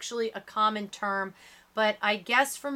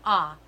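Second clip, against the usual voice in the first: doctor's ah; 5 semitones lower, 5 dB louder than usual. A narrator's reading. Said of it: "like I'm at the doctor's office and he wants me to say".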